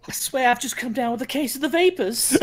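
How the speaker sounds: giggling through a mock swoon; laughing. Real, not acted. Host laughing at a joke, mock-faint laughter.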